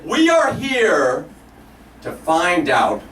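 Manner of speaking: very slow, dropping low and solemn; wife. Retold or imitated. Wife answering solemnly why they came, very slow. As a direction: draw it out with mock profundity. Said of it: "She's like".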